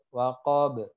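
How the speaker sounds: waqab with a short echo after the b; bounced final b. Shown as a demonstration. Teacher shows the bounce at the stop, echoed b. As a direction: release the b of waqab with a tiny "uh". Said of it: "Baru ini ke e".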